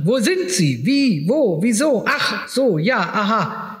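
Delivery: rapid high questions, half-hammed; an agitated lawyer yelling down the line; shouting on phone. A narrator's reading. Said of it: "schrie er so laut". (aufgeregtes Rufen am Telefon, höher)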